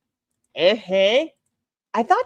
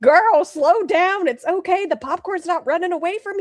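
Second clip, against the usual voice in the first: teasing; 9 semitones higher, 3 dB louder than usual. Real, not acted. Teasing friend eating fast.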